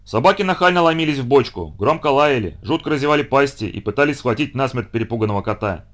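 ordinary delivery, nothing marked

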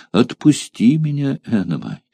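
«отпусти» выше и громче, с нажимом; вскрикнуть просьбу, ударив на «отпусти»; громкая мольба. Acted. Девушка умоляет отпустить её. (выше и громче, с нажимом на «отпусти»)

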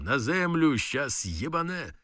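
urgent shout to the lads; shouting warning. Retold or imitated. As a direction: yell them down before the blast. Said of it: "Кричить хлопцям".

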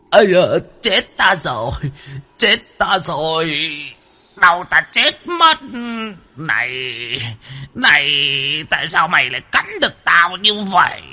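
put-on high, strained wailing old demon; yelping in pain. A narrator's reading. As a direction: whine and moan about the bite. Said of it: "kêu oai oái". (kêu oai oái, giọng lão quỷ cao và rên rỉ)

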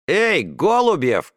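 put-on boy calling out a classmate. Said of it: "крикнул Олег Малышев".

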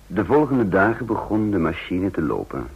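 measured, reflective storytelling voice; calm first-person narrator; story narration. A narrator's reading. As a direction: tell it looking back, unhurried. Narration summing up next days.

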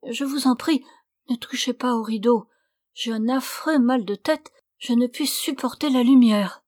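voix plus haute, plaintive et jouée; fausse malade suppliante. Acted. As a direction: supplier en feignant la migraine. (la suivante cachée supplie le seigneur de ne pas ouvrir)

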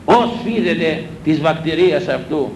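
slow solemn scriptural chant; intoned scripture. Acted. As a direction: recite it like a reading from the lectern. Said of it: "Λόγια της Γραφής σας λέω".

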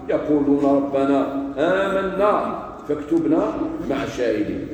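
slow, measured verse recitation; deliberate, drawn-out scriptural delivery; Quran recitation. Real, not acted. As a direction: recite solemnly with lengthened vowels.

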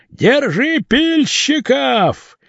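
high, slow drawn-out crowd yell from afar; high stretched-out chase cry; crowd shouting. A narrator's reading. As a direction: call out after the sawyers, stretching it. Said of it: "доносились крики".

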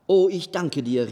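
put-on old man thanking the gnome joyfully; joyful cry. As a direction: call out gladly, relieved. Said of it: "rief der alte Mann freudig".

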